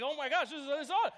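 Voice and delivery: high, loud and laughing with delight; bursting with glee at a yes; thrilled yes. Retold or imitated. Boy hearing she'll date him, laughing with excitement. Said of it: "So I was like".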